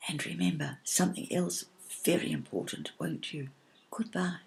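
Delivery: the cloud saying goodbye as it leaves; fading whisper. A narrator's reading. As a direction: let it drift away into a hush. Cloud's fading parting words.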